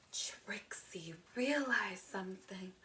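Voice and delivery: hushed suspense whisper. A narrator's reading. Reader whispering the turn to the child. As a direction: breathe it like a secret. Suspense in read-aloud story.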